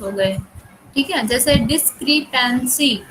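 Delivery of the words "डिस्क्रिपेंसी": डिस्क्रिपेंसी in four separate beats, डिस-क्रि-पेन-सी; split into syllables. Shown as a demonstration. Teacher asking students to count syllables, डिस्क्रिपेंसी broken into four units. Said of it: "इसमें कितने हैं?".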